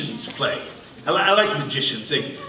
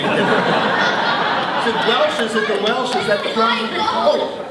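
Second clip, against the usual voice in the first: magician impression; 4 semitones higher than usual. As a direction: play a smug stage magician teasing a doubting crowd. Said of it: "my impression of a, a magic performer, magician".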